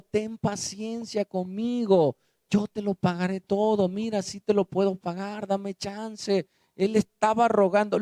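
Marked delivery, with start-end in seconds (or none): 0.0-6.5 humble plea. Acted. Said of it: "Le rogaba diciendo".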